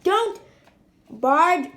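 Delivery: loud, high warning call; Dad yells at Henry to stop, loud and high; yelling. A narrator's reading. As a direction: yell it at the boy. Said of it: "yelled Dad".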